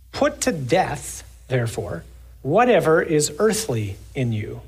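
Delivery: measured, solemn scripture reading. Acted. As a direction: read it out to the congregation. Reads scripture in sermon.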